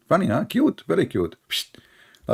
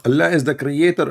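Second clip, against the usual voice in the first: high, louder, overexcited mock reply; mock preacher answer; 7 semitones higher, 4 dB louder than usual. Mocking the Muslim's reply, overexcited shout. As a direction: parody the excited answer. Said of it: "We ask him".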